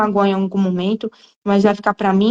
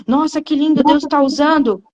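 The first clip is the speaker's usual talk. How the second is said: mock praise; 4 semitones higher than usual. Church members praising her, in mock admiring gush. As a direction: gush over her growth. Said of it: "em vez de falar assim".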